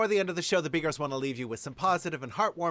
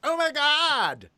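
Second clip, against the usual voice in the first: excited gasp; 8 semitones higher, 4 dB louder, much slower than usual. Real, not acted. Excited reaction.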